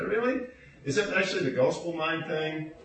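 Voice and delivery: 1 mock disbelief.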